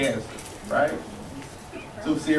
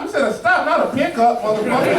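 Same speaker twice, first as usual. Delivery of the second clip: mock outrage; 5 semitones higher than usual. Comedian arguing with funeral worker.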